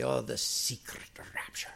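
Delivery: put-on scoffing Welsh accent, half whispered. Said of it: "he had a really strong Welsh accent".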